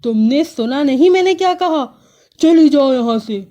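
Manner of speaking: crow shouting. Acted. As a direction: yell at her to get out. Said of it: "کوّا چلا کر بولا".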